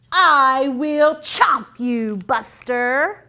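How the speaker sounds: slow, menacing monster threat; grotesque monster voice. Acted. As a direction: growl it out like a monster about to bite. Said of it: "says the monster".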